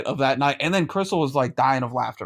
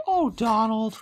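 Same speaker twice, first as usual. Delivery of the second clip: mock breathy wife; 8 semitones higher, slower than usual. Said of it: "I've asked her to say".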